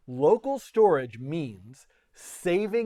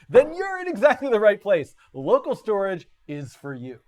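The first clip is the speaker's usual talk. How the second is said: mock sales pitch; 3 dB louder than usual. Tutor hamming up a sales pitch to viewers, mock infomercial voice. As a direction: pitch it like a late-night ad. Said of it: "yes, you are getting sold something".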